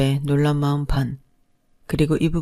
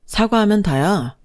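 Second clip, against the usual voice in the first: sudden outburst; 5 semitones higher than usual. Acted. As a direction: snap back at her, higher. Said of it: "갑작스럽게 화가 올라와서 버럭하는". (버럭 화내며 천천히)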